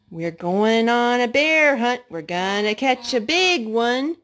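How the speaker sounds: sing-song storybook reading; chanting a picture book to a little boy; reading to a child. Acted. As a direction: read it out brightly for a toddler. Mom reads bear hunt to toddler.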